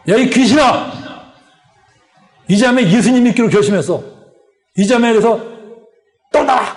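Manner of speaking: firm, forceful retold rebuke; exorcist's command. Preacher retelling his rebuke of a demon, commanding. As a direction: order it out, drawing out the final command.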